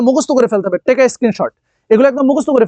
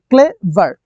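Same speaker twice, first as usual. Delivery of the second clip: ক্লেভার split into ক্লে, ভার; two separate syllables; slower than usual. Shown as a demonstration. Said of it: "মানে two syllable".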